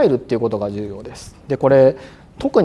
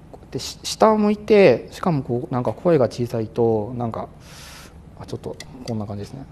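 much softer, unsure talk; softer, faltering, head down; timid low voice; 5 dB quieter than usual. Shown as a demonstration. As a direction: sound like a candidate with no confidence.

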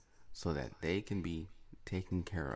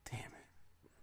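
hushed, breathy-free whispered "damn it"; whispered curse; 14 dB quieter than usual. Retold or imitated. Owner catching the cat mid-mischief, whispered. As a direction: mutter it under your breath in a whisper. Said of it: "you're like".

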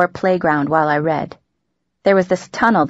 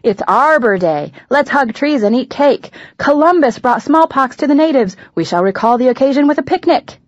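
lightly hammed-up festive cheer, pitched higher; over-eager celebrating mom; 6 semitones higher than usual. Daughter mimicking mom's celebration mania, over-eager cheer. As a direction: chirp each holiday plan with mock enthusiasm. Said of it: "super into celebration maximization".

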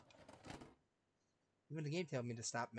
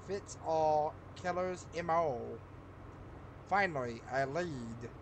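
a lightly put-on agent voice, slow and louder; 3 semitones higher, 4 dB louder than usual. Reading the game's agent lines aloud in a mild put-on voice. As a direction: read the case file like a dramatic TV agent. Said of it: "I don't know why I'm doing that voice".

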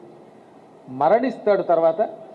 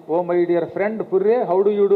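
mock polite greeting; much slower than usual. Greets the skull daily in English.

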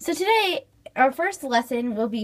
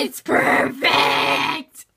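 whisper; 11 semitones lower, 4 dB louder, much slower than usual. Acted. Whispered admiring remark.

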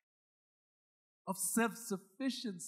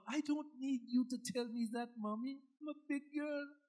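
a light, higher put-on teenage girl's sass; lightly voiced bratty daughter, higher; mock sassy daughter; 6 semitones higher than usual. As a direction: brush mom off like a know-it-all kid. Mimicking sassy daughter to mom.

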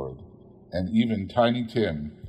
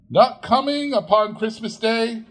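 crestfallen disbelief; 13 semitones higher, 5 dB louder than usual. A narrator's reading. Bob hears Martha won't come home for Christmas, high dismayed question. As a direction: let his spirit fall in disbelief. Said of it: "with sudden declension in his high spirit".

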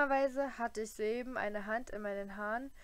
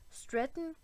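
croaked question, pitched higher; shocked higher croak; 6 semitones higher than usual. A narrator's reading. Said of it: "krächzte er".

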